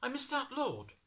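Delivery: put-on high, dismayed little boy; boy noticing his slip; boy's inner thought. A narrator's reading. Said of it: "he thought".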